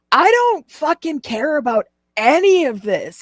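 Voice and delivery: imitating a drunk streamer, high and yelling; mock the drunk rant in a high yell; drunk high-pitched yelling. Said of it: "that high-pitched yelling".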